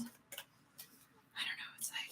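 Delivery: breathy secret whisper. Real, not acted. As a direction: drop to a hushed whisper, slowly. Sudden hushed aside.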